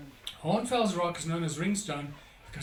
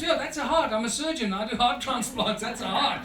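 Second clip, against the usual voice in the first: excited surgeon; 6 semitones higher, 4 dB louder than usual. Retold or imitated. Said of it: "And he goes".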